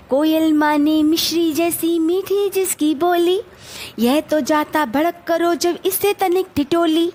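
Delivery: rhythmic, line-by-line verse reading; children's rhyme recited for learning; poem recitation. Shown as a demonstration. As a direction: recite the stanza in a teacher's measured sing-song. Teacher recites the second stanza.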